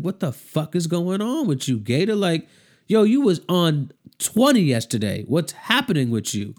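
imitating baffled friends, pitch jumping up; mock-incredulous demand, punched at the start; retold alarmed confrontation. Friends confronting Gator when he's out of it at rehearsal, retold alarm.

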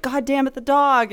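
frustrated yell at the dog. Retold or imitated. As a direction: shout it at the screen. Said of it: "I'd be yelling at the thing".

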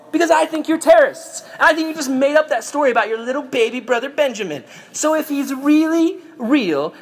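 high, hammed-up interrogator; imperious demand. Joseph tests his jailed brothers, mock imperious demand. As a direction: lay down terms, voice held high.

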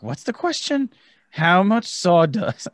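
high, slow baffled voice; a lightly voiced puzzled friend on the line; confused friend. Friend on the phone asking, high and baffled.

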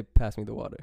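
American accent, short flat A in "Pass"; plain American pronunciation of "Pass" and "water". Shown as a demonstration. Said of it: "you say, you say".

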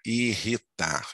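"irritar" said slowly, syllable by syllable; soletrando. Shown as a demonstration. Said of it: "quando você for soletrar ou falar". ("irritar" devagar, sílaba por sílaba)

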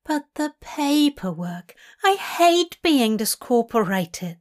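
mild fussy whine; Aziraphale whining. Acted. Angel dreading paperwork after a crash, whining. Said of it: "Aziraphale whines".

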